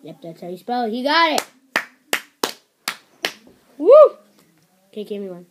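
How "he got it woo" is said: slow, high, loud cheer; excited cheer. Real, not acted. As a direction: drag it out in triumph. Cheering a correct backwards answer.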